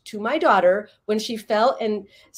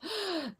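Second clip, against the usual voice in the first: sharp, soft gasp of concern; sympathetic gasp; 10 semitones higher, 13 dB quieter than usual. Retold or imitated. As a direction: gasp as if you just saw the wound. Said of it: "some validation".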